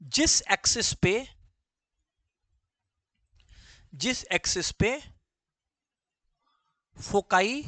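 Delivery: slow, spaced out for students to write; धीरे-धीरे लिखवाते हुए; slow dictation. Shown as a demonstration. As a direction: dictate it word by word. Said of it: "यहां पे लिख लो".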